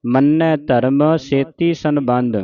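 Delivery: slow, measured model recitation; scripture recitation demo. Shown as a demonstration. Teacher showing congregation correct Japji Sahib reading, slow recitation. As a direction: recite it slowly for learners to copy. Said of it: "ਸ਼ੁੱਧ ਉਚਾਰਨ ਆਪਾਂ ਸਿੱਖ ਰਹੇ ਹਾਂ".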